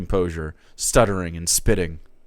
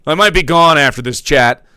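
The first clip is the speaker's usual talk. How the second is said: solemn streamer farewell; 6 dB louder than usual. Acted. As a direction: say goodbye to chat as if for the last time. Jake's farewell to his stream.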